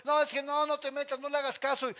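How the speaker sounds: más alto y fuerte, chismoso de micro; pasajero platicón. Retold or imitated. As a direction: imita la plática ruidosa del micro. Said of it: "Tú te sientas". (pasajeros de micro platicando fuerte, imitados)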